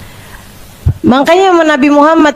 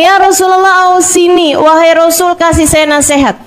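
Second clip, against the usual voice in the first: put-on a young man's raised, eager request to the Prophet; young man asking; 5 semitones higher than usual. Young man asks the Prophet for advice, raised and eager. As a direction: ask the Prophet for advice, a little higher. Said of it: "Dia bilang".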